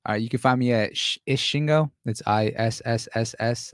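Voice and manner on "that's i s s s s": I S S S S spelled with hissing s; S S S S drawn out like a snake. Shown as a demonstration. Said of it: "That's four".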